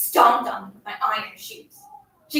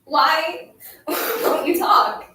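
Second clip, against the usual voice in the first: slow, higher plea breaking into tears; starting to cry; 5 semitones higher, much slower than usual. A narrator's reading. Bully gives up on silent girl, tearful slow plea. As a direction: drag it out, close to crying. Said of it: "I started to cry".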